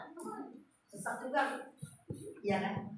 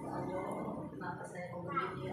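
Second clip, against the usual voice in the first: whispered prayer; 5 semitones lower, 9 dB quieter than usual. Retold or imitated. Example prayer to God.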